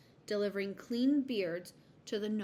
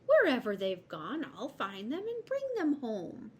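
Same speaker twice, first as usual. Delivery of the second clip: mildly reassuring, higher voice; a touch of comforting squirrel; 4 semitones higher, 5 dB louder than usual. A narrator's reading. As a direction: promise help to a worried mother. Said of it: "in a comforting voice".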